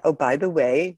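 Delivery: offhand, breezy aside; casual. Retold or imitated. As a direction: say it like it's no big deal. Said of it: "very casual".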